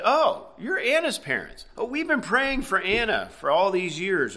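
high-pitched retold "oh!" of recognition; delighted recognition. Preacher retells a stranger meeting Anna's parents, delighted recognition. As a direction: imitate a stranger suddenly realizing who they are.

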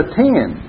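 "attend" given firm weight; stress on attend. Shown as a demonstration. Preacher showing the key word, stressing "attend". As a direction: press down on "attend". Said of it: "we'll emphasize certain words".

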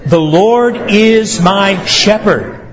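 slow, deliberate "The Lord is my shepherd" with the word "is" pressed. Shown as a demonstration. Preacher leading the congregation's second try, slow and deliberate. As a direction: draw it out so the whole room says it together. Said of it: "Let's try that one more time".

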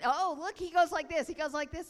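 put-on loud, high-pitched kids pointing something out; excited children. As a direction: act out children gleefully copying someone. Deaf kids excitedly copy boy.

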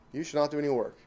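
You given the weight of the line; stress on You. Shown as a demonstration. Preacher explaining the commandment's emphasis, stress on You. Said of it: "Emphasis, "you".

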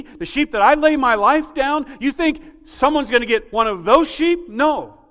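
loud, high, driving sermon voice; fiery preaching. Acted. Pastor preaching hard to the congregation, fiery. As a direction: preach it out with rising force.

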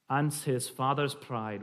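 slow Scottish verse line; slight Scottish accent. Shown as a demonstration. Reading a Scots poem to the group, slight Scottish accent. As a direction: linger over it in light Scots. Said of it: "a slight Scottish accent".

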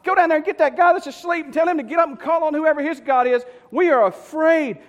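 high, loud, panicky orders; acted alarm. Frightened sailors sending for the sleeper, loud and alarmed. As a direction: shout urgently like frightened crewmen. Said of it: "But they're afraid. And they say".

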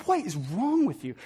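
soft, muttered exasperation; quiet, acted-out grumbling; mumbling under breath. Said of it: "start mumbling under our breath".

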